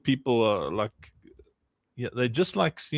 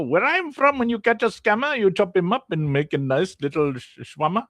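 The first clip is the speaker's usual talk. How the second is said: mock high voice; 7 semitones higher than usual. Joking about eating scammers.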